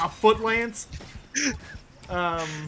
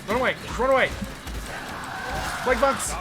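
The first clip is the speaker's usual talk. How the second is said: being chased; 3 semitones higher, faster than usual. Real, not acted. Fleeing a plague monk patrol.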